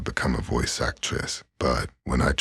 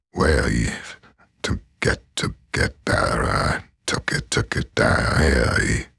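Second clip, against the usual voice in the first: highest voice; 4 dB louder, slower than usual. Shown as a demonstration. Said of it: "the absolute highest voice that I can do".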